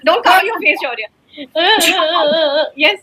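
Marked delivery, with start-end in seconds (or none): 1.4-2.7 short fake wail; pretend crying. Shown as a demonstration. Teacher coaxes shy pupil to cry along, pretend crying. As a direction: put on a mock sob. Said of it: "Now we also have to cry".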